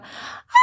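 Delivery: drawn-out imitated squeal; imitated toddler squeal. Imitating their daughter spotting a dog, drawn-out squeal. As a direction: mimic a little girl reacting to a dog. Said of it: "when she sees a dog".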